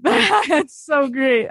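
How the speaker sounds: laughing through delighted words; real delighted laugh. Real, not acted. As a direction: giggle it out, delighted.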